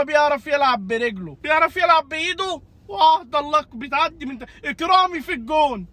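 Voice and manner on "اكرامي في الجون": a real yell at the goal; shouting at the screen. Real, not acted. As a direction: call it out like a fan watching the match. Fan yelling at the match. (صراخ مشجع على الشاشة)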